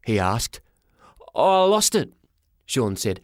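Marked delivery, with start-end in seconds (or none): 1.3-2.1 put-on high-pitched young lad; high boyish voice; boy's voice. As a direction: answer up high like a flustered kid. Boy character answers porter.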